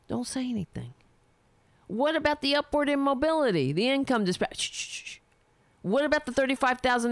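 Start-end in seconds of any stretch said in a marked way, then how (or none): 0.1-0.9 softer warning, a hint of a scolding insider; mock hush. Mock establishment silencing. 4.6-5.2 high shh fading to a whisper; mock shushing. Mock shushing cuts him off.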